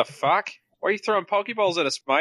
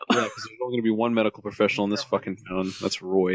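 low gravel vigilante growl; 8 semitones lower than usual. Acted. Copying the gravelly voice.

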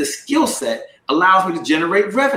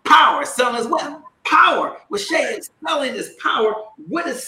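rallying call and response; 7 semitones higher than usual. Acted. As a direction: pump up the crowd.

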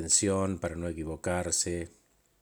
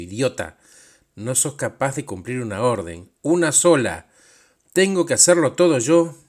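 berating rant that builds to a loud shout; furious scolding that grows into yelling; angry tirade; 6 dB louder than usual. Retold or imitated. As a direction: start cutting and contemptuous, then explode at the end. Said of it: "dijo con mucha bronca en la voz".

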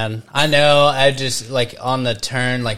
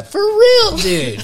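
much higher, laughing through the words; 7 dB louder, much slower than usual. Real, not acted. Mocking his own weak car with friends, laughing. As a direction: crack up while agreeing.

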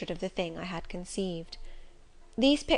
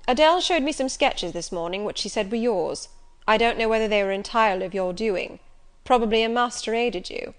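Rochester, commanding; 2 semitones higher, 6 dB louder than usual. Acted. Rochester doubts sketches.

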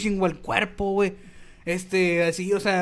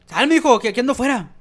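llamada fuerte desde la calle; grito imitado; 4 semitones higher, 5 dB louder than usual. Retold or imitated. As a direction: grita como amigo afuera llamando. Amigo gritando desde afuera. (grito de amigo desde la calle)

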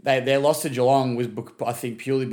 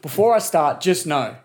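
angry rant; 2 semitones higher than usual. Acted. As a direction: lay into him like a fed-up fan. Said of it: "that's just a little rant I've got for Jack".

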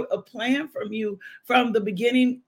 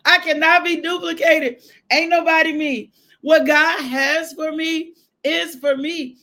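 declaring; 4 semitones higher, 4 dB louder than usual. Real, not acted. Repeated declaration, louder.

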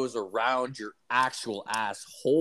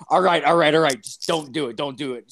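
put-on girlfriend backing down; 3 semitones higher, 6 dB louder than usual. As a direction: hurriedly beg him to stop, then trail off. Girlfriend backs down, pleading.

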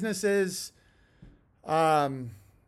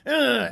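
disgusted groan; 5 semitones higher, 4 dB louder than usual. Retold or imitated. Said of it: "It's like".

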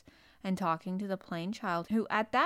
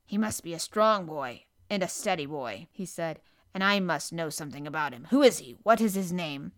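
lightly voiced doctor, questions growing louder; concerned doctor; 2 semitones lower, 5 dB louder than usual. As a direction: question the patient firmly, a hint of authority.

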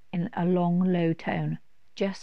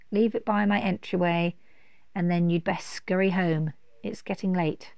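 booming beast granting leave; grand dragon voice; 2 semitones higher than usual. Acted. Dragon speaks.

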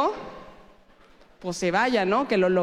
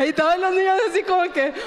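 laughing while speaking; 6 semitones higher, 3 dB louder, faster than usual. Real, not acted.

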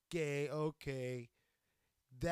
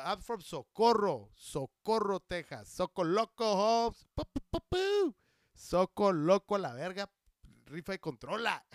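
loud, raised, rowdy shout-out; hometown hype; 2 semitones higher, 11 dB louder than usual. Pretend. Podcaster repping Socorro, Texas, loud playful hype. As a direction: holler it like repping the barrio.

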